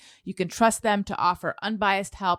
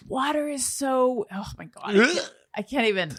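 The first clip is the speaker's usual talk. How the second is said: gushing quote; 5 semitones higher than usual. Retold or imitated. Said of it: "someone had written something like".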